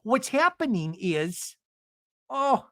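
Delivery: high, drawn-out dramatic confession; mock anguished admission; Gina. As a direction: mimic her in a high put-on voice. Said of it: "starts sounding like Gina".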